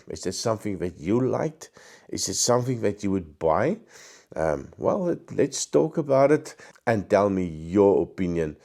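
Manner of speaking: hoarse, croaky throat; talking through a croaky voice. Real, not acted. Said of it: "Sorry about the croaky voice".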